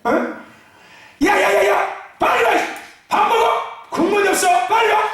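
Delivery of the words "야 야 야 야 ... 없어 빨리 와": hammed-up nagging yell. Pastor imitating a mother yelling at kids, mock yell. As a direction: holler at the kids to hurry.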